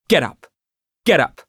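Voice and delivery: curt retold order, rising on the second; snapping. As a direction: bark him out of the seat. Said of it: "I snapped".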